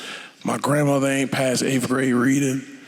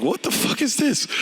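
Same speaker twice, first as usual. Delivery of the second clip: mock disbelief; 10 semitones higher than usual. Mock shocked reaction quote.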